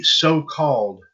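"so-called" drawn out slowly for emphasis; slow, pointed weight on "so-called"; stress on so-called. Real, not acted. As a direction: lean hard and slow on "so-called". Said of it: "I emphasize the word so-called".

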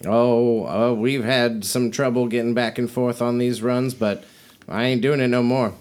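lightly voiced, reluctant trader woman; folksy trader, fed up. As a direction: grumble a little as a folksy merchant.

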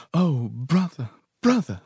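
high, emotional cry of joy; woman crying out in joy; tearful cry of welcome. A narrator's reading. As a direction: cry out to a long-lost brother. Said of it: "a woman's voice cried into my ear".

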